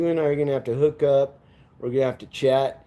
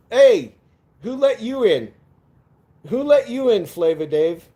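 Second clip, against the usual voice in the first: mock surprise; 6 semitones higher, 4 dB louder than usual. Mock outrage at chat guest.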